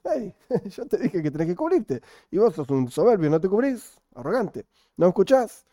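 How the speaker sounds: playful telling-off, pitch jumping high; mock scolding. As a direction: scold someone disobedient with a laugh in it. Scolding the disobedient sky in quote.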